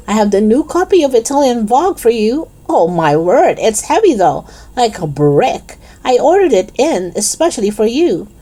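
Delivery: lightly voiced, eager-to-please shopkeeper; chatty shopkeeper Raj. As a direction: make a small fuss of a favourite customer.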